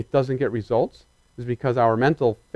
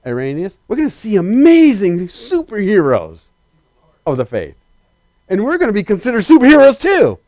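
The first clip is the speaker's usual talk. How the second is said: excited; 3 semitones higher, 4 dB louder than usual. Retold or imitated. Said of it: "she was all excited for months".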